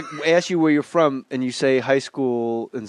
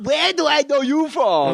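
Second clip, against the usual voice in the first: high, put-on bogus Irish accent; hammed-up, high-pitched joke Irish accent; mock "Irish guy" accent; 12 semitones higher than usual. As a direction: do a badly faked Irish accent. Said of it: "An Irish guy".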